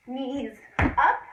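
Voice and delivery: loud snappy call; coach calling out a cue. Shown as a demonstration. Coach cueing a tuck jump for children, loud. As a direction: punch it out for the class. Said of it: "coach calls jump cue".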